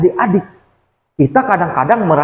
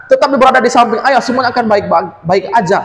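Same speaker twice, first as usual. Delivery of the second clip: raised calming father; 8 semitones higher than usual. Acted. Father calms crying son.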